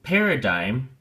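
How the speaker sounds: Paradigm with PAIR stressed, rising; teacher modelling the stress; stress on the first syllable. Shown as a demonstration. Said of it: "the emphasis or stress is on the first syllable".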